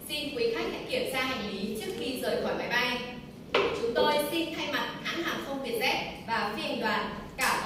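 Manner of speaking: flight attendant announcement. Pretend. Teacher plays flight attendant.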